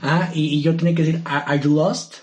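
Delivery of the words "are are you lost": a light put-on husky voice, barely lower. Friend asked for an audio, lightly husky seductive voice. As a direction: ask it like a guy doing a hint of a seductive husky voice. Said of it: "con voz ronca".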